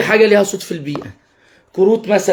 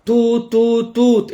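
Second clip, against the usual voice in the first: train toot; 3 semitones higher, much slower than usual. Shown as a demonstration. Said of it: "بأسلوب فيه فرح ومرح ولعب".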